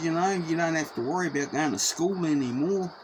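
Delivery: a hint of a father tenderly comforting his daughter; tender reassurance. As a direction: soothe the little girl, lightly acted.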